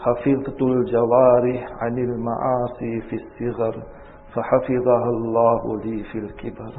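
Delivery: brisk recited Arabic maxim; Arabic saying recited. Acted. Old sheikh answering his questioner, brisk recitation.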